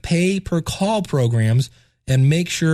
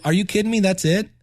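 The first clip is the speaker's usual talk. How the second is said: disbelieving relief; 4 semitones higher than usual. Retold or imitated. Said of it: "all the way through to".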